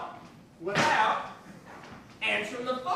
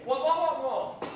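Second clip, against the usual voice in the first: muffled wah wah talk. Acted. Phone voice.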